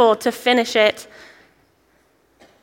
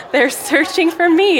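punchline repeat; 6 semitones higher, slower than usual. Retold or imitated. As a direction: land the punchline high and drawn out. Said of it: "he says".

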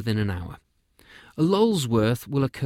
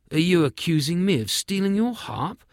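higher, indignant outcry; king's outcry; 7 semitones higher, 3 dB louder than usual. Acted. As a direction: throw the accusation back, a bit louder. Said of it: "cried the king".

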